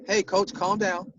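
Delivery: slow, easy "Hey, coach, calm down."; slow, gentle "Hey, coach, calm down." as he said it in the game; calm reminder. Shown as a demonstration. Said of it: "that's how I said it".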